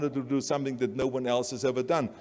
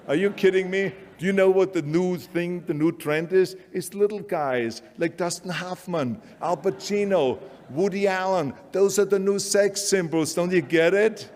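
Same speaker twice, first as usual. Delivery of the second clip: worked-up agent; 4 semitones higher than usual. Retold or imitated. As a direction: hammer him with the new trend. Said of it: "that's what they said".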